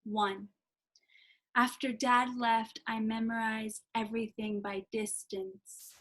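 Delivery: slow, measured poetry reading; poem recital. Acted. Poet reading Riding in Cars with Men aloud, slow and deliberate. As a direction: give each phrase weight and space.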